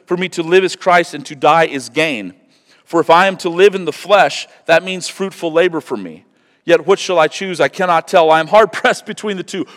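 high, loud preaching of the letter; impassioned scripture reading. Acted. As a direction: proclaim it with fire. Reads Paul's letter aloud.

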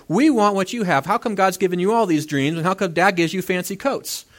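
a touch of mock indignation; jealous complaint. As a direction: act out envious brothers protesting. Acts out Joseph's jealous brothers.

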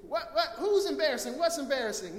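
loud, high, confused questions; comic shouting back through a gale; mishearing over wind. Acted. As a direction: play someone who can't hear, calling back. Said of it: "the wind is so loud they can't hear him".

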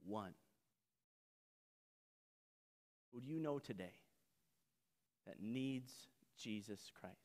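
soft, intimate challenge; quiet appeal. Real, not acted. Preacher quietly challenging the congregation, softly. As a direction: lean in and ask gently.

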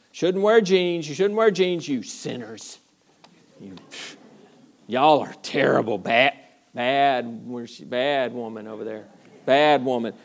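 hammed-up scolding of sinners; lightly played judgmental preacher, mock scolding. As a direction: poke fun at a finger-wagging preacher. Mocking a legalistic preacher.

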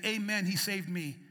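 calling out the line for the congregation to repeat; a lead-in the crowd can echo back; prompted response. Shown as a demonstration. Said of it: "Someone say".

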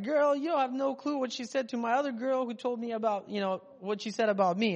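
gossiping friend telling what she said; gossiping girlfriend. Retold or imitated.

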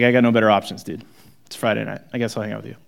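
mock sarcastic Peter. Shown as a demonstration. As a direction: toss it off like settling for a dull friend. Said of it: "that sounds so sarcastic to me".

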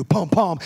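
low, punchy double thump; two pulsing beats like a heart; imitated heartbeat. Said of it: "hear that heartbeat".

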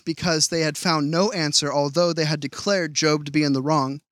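measured Bible reading voice; scripture reading. Acted. Preacher reading Elihu's anger from Job, measured reading. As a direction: read the passage steadily to the congregation.

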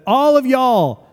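loud, high, slow yell. Retold or imitated. Russ yelling at the whole prayer group, loud and drawn out. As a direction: bellow it across the room to stop everyone. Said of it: "And he yelled it out".

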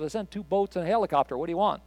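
God answering the drowned man, understated; dry retort from God. Retold or imitated. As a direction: toss off the punchline softly.

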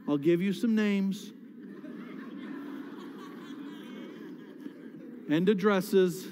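mock-fed-up talk to God, laughing through the names; half-joking complaint, chuckling as it goes; joking prayer. Pastor jokingly telling God to pick on others, laughing. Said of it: "I'm kidding".

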